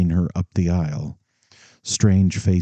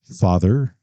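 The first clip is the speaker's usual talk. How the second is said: abrupt and stern. Acted. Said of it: "abrupt and stern".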